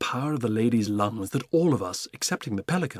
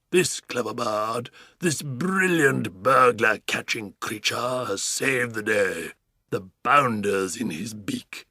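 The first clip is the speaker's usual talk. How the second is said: pompous praise; slower than usual. Acted. Duke praising, slow pompous.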